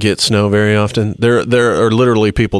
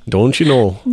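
put-on Minnesota accent. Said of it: "further north of the border".

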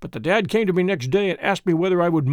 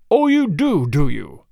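snarling; 4 dB louder, slower than usual. A narrator's reading. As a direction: throw it back with contempt, loud. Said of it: "he snarls".

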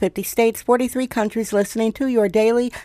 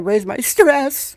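voice cracking; 4 semitones higher, slower than usual. Shown as a demonstration. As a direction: voice cracks up high with a laugh. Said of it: "my voice cracked".

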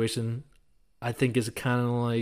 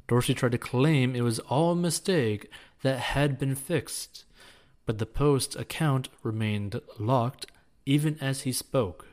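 news editorial read; 2 semitones higher than usual. Acted. Reads a news editorial aloud.

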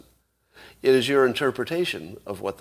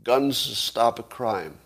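slow example statement; much slower than usual. Shown as a demonstration. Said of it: "Suppose I say".

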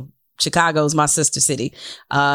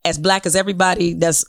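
ordinary talk, nothing marked

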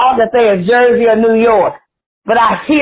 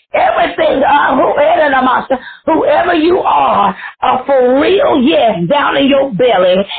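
prophetic preacher in full flow; fervent preaching. Real, not acted. Prophesies to prayer line.

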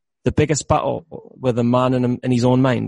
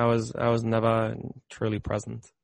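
soft, slow and deliberate admission; hushed, inward realisation; slow, reflective; 2 semitones lower, 7 dB quieter than usual. Real, not acted. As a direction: say it slowly, hearing it inside yourself. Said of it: "say it again really slowly and".

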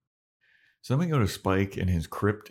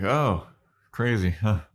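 jokey Spike; 4 semitones higher, 3 dB louder than usual. Retold or imitated. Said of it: "And he's like".

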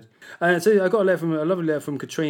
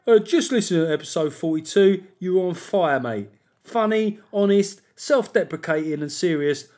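Hendon Steve. Acted. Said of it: "I know how to do Hendon Steve".

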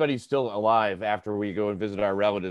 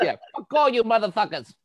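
much higher and louder, laughing through it; laughing mock heckler; 11 semitones higher, 5 dB louder than usual. The heckler cursing the mayor's detail, laughing mock yell. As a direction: shout it out like a gleeful heckler.

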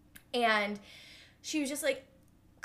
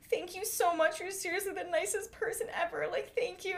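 put-on gushing girl; 7 semitones higher than usual. Drunk girl calling the driver the nicest person ever, gushing. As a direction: lay the gratitude on thick. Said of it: "And then she was just like".

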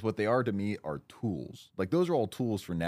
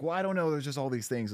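higher, whiny put-on voice; mock indecisive whine; 5 semitones higher than usual. To a partner who asks how to fix things, a mock whiny dodge. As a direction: play the person who won't say what they need.

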